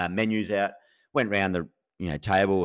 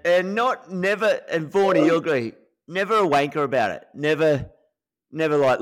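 higher, insistent stress on never; emphatic; 6 semitones higher than usual. Real, not acted. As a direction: drive home the point. Insisting Warne was never arrogant.

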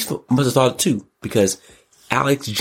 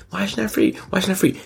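mocking upset voice; 11 semitones higher, much faster than usual. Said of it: "She's upset".

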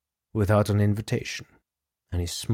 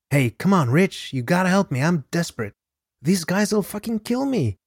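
desperate pleading; 8 semitones higher than usual. A narrator's reading. Indebted man begging his partner for help, high and desperate. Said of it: "He pleaded with Kuklinski".

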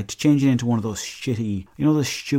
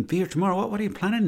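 incredulous; 11 semitones higher, faster than usual. Retold or imitated. Mocking the lyric, incredulous.

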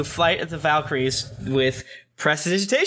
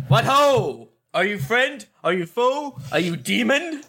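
mild booming voice; 2 semitones higher, slower than usual. Acted. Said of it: "I make a booming voice".

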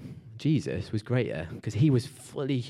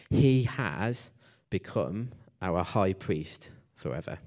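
scripture reading. Acted. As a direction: read the verse out deliberately, phrase by phrase. Reads scripture aloud to congregation.

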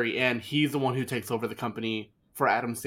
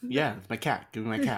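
deadpan echo of a monotone man; mock monotone quote; monotone imitation; 3 semitones lower than usual. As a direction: imitate him with hardly any tune. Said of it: "he's also very monotone when he says it".

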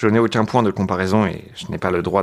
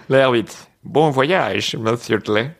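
higher, hammed-up Italian accent; failed Italian accent; 4 semitones higher, much slower than usual. Driver wishes his boss a good trip, botched Italian accent. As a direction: put on a bad Italian accent. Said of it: "Je sais pas faire l'accent italien".

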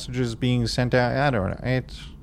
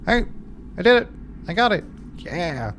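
excited shout; 6 semitones higher, faster than usual. Acted. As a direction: cheer like you just won. NPC Dupont celebrating at terminal.

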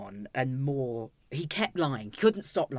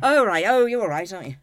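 mock breezy dad; 3 semitones higher, 9 dB louder, faster than usual.

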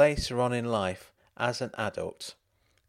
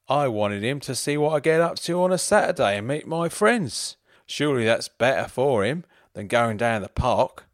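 higher, louder tipsy greeting; drunk voice; 4 semitones higher, 5 dB louder than usual. Acted. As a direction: slur it sweetly like a drunk husband. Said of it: "still in his drunk voice".

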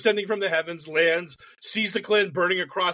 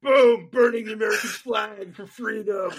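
loud boom, then higher proclamation; mock triumph; 5 semitones higher, 3 dB louder than usual. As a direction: proclaim it like a hammed-up patriot. Mock flag burners celebrating.

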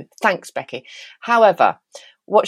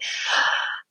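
gasp; 8 dB quieter than usual. Real, not acted. Delighted gasp at listener email.

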